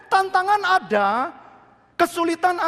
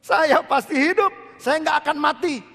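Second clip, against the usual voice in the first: bold declaration; 3 semitones higher, 5 dB louder than usual. Shown as a demonstration. Preacher leading the church in bold confession. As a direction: declare it like a victory. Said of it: "Amin, saudara".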